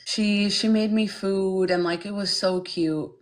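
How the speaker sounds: high, gushing, mock-sweet voice; mocking white woman. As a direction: parody a patronizing woman cooing over a foreigner. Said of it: "they'll say things like".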